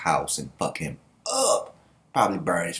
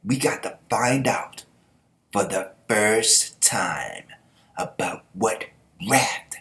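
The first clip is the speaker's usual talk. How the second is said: dramatic quote; slower than usual. Retold or imitated. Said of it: "he goes".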